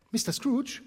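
high, rising, outraged question; shocked wife, high and loud; indignant surprise. Acted. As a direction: she can't believe the toast. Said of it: "rief Misses Cratchit".

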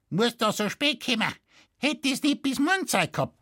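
put-on high, sharp scolding old woman; yapping. A narrator's reading. Widow scolding the forester for coming late, high yapping. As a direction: yap at him like a cranky old woman. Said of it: "belferte sie".

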